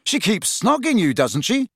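baffled high start; bewildered. A narrator's reading. Friend puzzled by lovesick mate, bewildered. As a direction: point it out in bewilderment.

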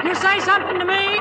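high, quick question; calling over noise. Acted. Driver checking with passengers, calling out. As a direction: call out quickly over a racket.

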